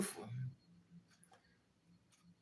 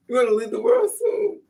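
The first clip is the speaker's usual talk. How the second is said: very high, loud exaggerated wail; hammed-up tearful howl of grief; mock crying; 9 semitones higher, 8 dB louder than usual. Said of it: "I would start crying".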